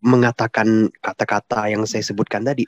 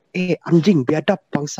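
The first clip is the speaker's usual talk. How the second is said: mild mock swearing, starting higher; imitated rough cursing; 6 semitones higher than usual. Questioner quotes Pak Paul talking rough, mild imitated cursing. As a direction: imitate someone cursing, without real anger. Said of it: "ngomong kasar kan".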